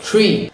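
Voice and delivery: "tree" with a loose, flowing tr; American TR. Shown as a demonstration. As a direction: let the tongue go on "tree". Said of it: "let your tongue go".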